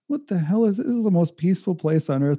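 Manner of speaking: mock disbelief at himself; exasperated self. Inner exasperated monologue.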